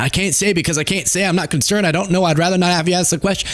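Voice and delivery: lightly mimicked halting answer, rushed at the end; a hint of a stammering politician dodging; stuttery glitchy answer. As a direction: stumble through it as a flustered Trump. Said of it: "Trump just giving a stuttery, glitchy response".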